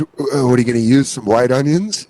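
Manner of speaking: seedy, horny caller asking about food; lightly imitated lecherous voice; Randy Marsh. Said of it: "such a seedy, horny voice for food".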